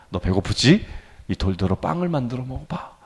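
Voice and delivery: low, very soft coaxing; quiet, insinuating temptation; tempting devil. Acted. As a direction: play the tempter murmuring to a hungry man. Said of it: "유혹하는 거였죠".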